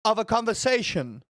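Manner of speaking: exasperated streamer scolding chat; scolding a viewer. Real, not acted. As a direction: put the entitled viewer in their place.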